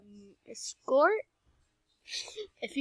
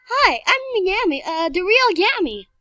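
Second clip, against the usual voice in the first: villain voice; 6 semitones higher, 9 dB louder than usual. Pretend. Role-playing the villain Yami.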